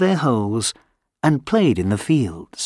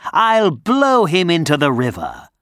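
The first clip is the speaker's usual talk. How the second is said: boastful wind; 6 semitones higher than usual. Acted. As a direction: boast with glee.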